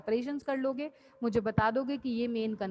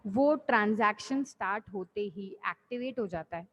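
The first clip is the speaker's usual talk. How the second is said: measured, unhurried teacher's re-explanation; slowed-down explanation. Real, not acted. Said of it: "तो धीरे धीरे बोल देते हैं वापस से".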